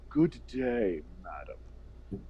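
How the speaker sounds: slow, refined AI butler; lightly voiced Jarvis-like professor. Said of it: "more of a Jarvis-y professor sounding one".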